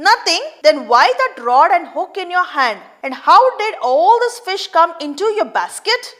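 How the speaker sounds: mock the fisherman's lie; scolding. Watchman scolds the poacher.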